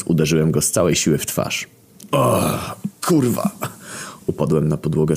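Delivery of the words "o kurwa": pain. A narrator's reading. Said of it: "skręcając się z bólu".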